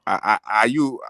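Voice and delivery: ordinary delivery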